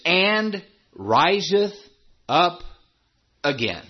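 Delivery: "and" held long, then "riseth up again"; slow, spaced phrase leaning on "and"; stress on AND. Shown as a demonstration. Preacher thanking God for that conjunction, stressed "and". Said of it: "That word "and," it says".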